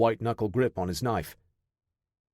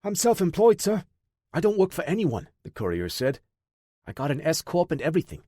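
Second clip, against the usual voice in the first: put-on wisecracking young courier, higher; smart-mouthed, pitched up; cocky higher voice; 5 semitones higher than usual. A narrator's reading.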